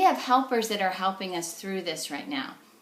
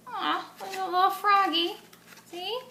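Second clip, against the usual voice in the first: cute delight; 10 semitones higher than usual. Real, not acted. Shows craft frog to kids.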